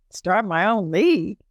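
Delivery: mildly incredulous echo, retold; taken aback. Woman answering God's call to start a league, taken aback. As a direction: question the instruction back in mild disbelief. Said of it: "I'm like".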